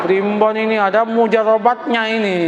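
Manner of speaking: normal talking voice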